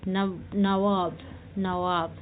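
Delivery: नवाब drawn out very slowly; slow demo. Shown as a demonstration. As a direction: stretch नवाब for the class. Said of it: "ठीक है, नवाब।".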